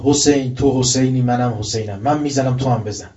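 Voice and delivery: loud defiant challenge shouted from a tank; a retold loud battlefield taunt. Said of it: "بالای تانک داد زد".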